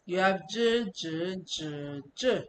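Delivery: "j" said in four tones in turn; four Chinese tones. Shown as a demonstration. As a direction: run "j" through the tones. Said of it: "this one is jaji".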